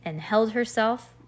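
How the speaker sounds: measured, expressive story reading; storybook read-aloud. A narrator's reading. Reader tells a child about two girls dressing up, storybook read-aloud.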